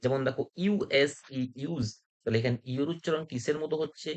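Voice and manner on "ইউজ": "ইউজ" with U sounded as ইউ; yoo demonstration. Shown as a demonstration. Teacher giving an example of the rule, "ইউজ" with U said as ইউ. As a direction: say "ইউজ" opening on a yoo glide. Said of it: "ইউ এর উচ্চারণ ইউ এর মতো হচ্ছে".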